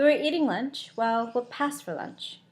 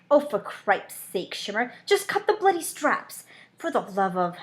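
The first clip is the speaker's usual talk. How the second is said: fed-up partner telling her to cut it; a lightly voiced impatient vampire; exasperated Alex. Alex exasperated at stuck camera.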